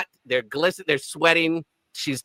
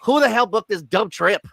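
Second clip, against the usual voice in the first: mock grumbling; 4 semitones higher, 3 dB louder than usual. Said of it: "H is like".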